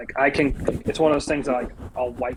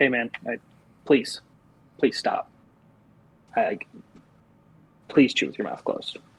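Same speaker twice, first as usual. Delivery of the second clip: mock-stern, put-on firmer tone. Retelling a second warning to someone chewing loudly at dinner: mock-stern request. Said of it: "but like a little more stern".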